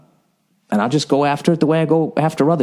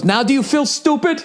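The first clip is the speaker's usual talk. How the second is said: much higher, prissy mocking voice with a laugh; imitating the driver's snide gotcha; smug taunt. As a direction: gloat like the smug rich driver. Retold quarrel, driver's taunt.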